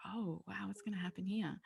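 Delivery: soft, unvoiced whisper of wonder; amazed whisper. Mum watching her daughters, whispering in amazed wonder. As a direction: breathe it out, amazed and hushed. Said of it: "And I was just like".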